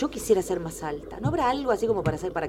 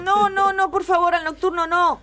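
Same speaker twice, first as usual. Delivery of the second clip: pleading; 9 semitones higher, 6 dB louder than usual. Acted. Begging father not to punish.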